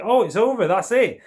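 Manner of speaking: acted "oh!" of surprise, pitched right up; surprised reaction. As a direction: play a listener caught out by the ending. Acting listener's reaction when album ends.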